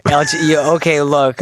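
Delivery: slightly slurred speech; words running together, slurring. Real, not acted. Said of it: "I'm fucking slurring my words".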